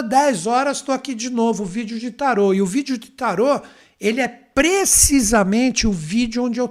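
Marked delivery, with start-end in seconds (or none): none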